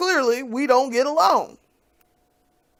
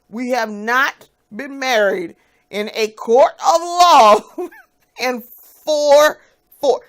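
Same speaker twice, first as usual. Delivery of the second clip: laughing disbelief; 2 semitones higher, 6 dB louder, slower than usual. Real, not acted.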